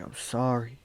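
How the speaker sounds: mildly acted tearful pleading; tearful apology. Owner crying onto his dog, tearfully apologizing. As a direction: apologize as if crying, a touch overcome. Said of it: "My tears is hitting him".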